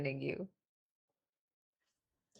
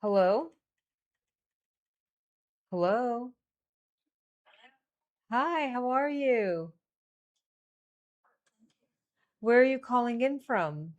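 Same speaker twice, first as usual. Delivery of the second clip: slow, relaxed and drawn out; 4 semitones higher, 3 dB louder than usual. Real, not acted. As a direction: take your time on every word. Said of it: "Why is your voice so slow?".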